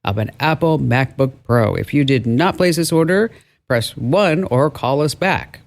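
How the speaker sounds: lightly imitated automated phone message; a hint of robot, measured and even; robotic voice. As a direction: read it like a recorded scam call. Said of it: "there's a robotic voice that says".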